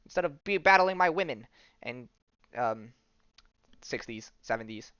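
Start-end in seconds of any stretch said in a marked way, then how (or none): 0.1-1.5 mock heroic challenge. Acted challenge to a choking attacker.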